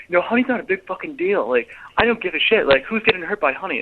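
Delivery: high-pitched mock rant from a shop worker; retold rant. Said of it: "just starts ranting".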